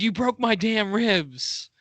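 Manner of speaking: drawn-out, high mock yell; retold yell. Host imitating Hogan's complaint about his ribs, drawn-out mock yell. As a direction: stretch it out like a hammed-up wrestler's complaint. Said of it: "And he yelled".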